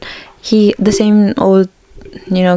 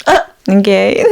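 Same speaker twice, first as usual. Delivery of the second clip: laughing. Retold or imitated. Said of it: "I literally went".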